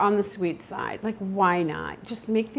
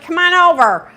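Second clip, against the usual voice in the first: higher, louder, hammed-up hen voice; guinea hen welcoming squirrels; 4 semitones higher, 10 dB louder than usual. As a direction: play the hen inviting the squirrels over. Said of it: "She's like".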